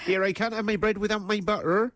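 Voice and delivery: lightly put-on Bristolian voice; Bristolian accent. Shown as a demonstration. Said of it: "I could do, like, Bristolian".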